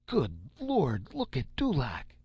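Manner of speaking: high startled cry, voice jumping up; shocked exclamation. Acted. Newsman reacts to Dulaq's state, shocked and high. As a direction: gasp it out in alarm.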